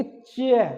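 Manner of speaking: चे drawn out with a slow tongue release; long, deliberate चे; slow-release pronunciation. Shown as a demonstration. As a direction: press the tongue, then slowly release चे. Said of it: "धीरे धीरे उठेगी".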